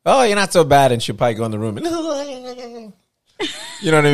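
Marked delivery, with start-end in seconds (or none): 0.0-0.9 grudging mum. Retold or imitated. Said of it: "be like".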